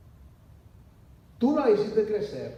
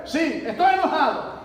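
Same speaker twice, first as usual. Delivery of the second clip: voz de niño terco, más alta y más fuerte; un chico caprichoso que admite su enojo; niño enojado; 9 semitones higher, 9 dB louder than usual. Acted. Imitando a Jonás como niño. (Jonás como niño caprichoso, voz alta)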